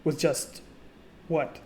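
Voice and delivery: mildly flustered, rushing then breaking off; acted sputtering. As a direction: sputter in disbelief, losing the thread mid-sentence. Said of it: "like, sputtering".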